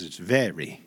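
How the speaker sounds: Texas Southern accent on "very"; demonstrating a Texas accent. Shown as a demonstration. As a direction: say VERY the Texan way. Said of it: "they talk like this down here in Texas".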